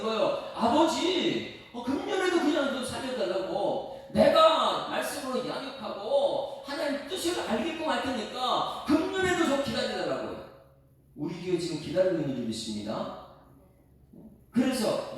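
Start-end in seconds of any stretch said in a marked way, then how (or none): 0.5-10.5 Jesus pleading. Retold or imitated.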